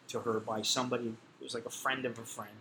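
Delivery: ordinary talk, nothing marked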